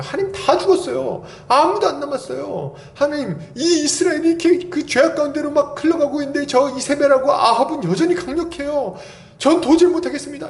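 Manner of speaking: high-pitched hammed-up lament; pleading complaint. Elijah telling God he cannot go on, high pleading lament. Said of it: "엘리야가 막 하소연했죠".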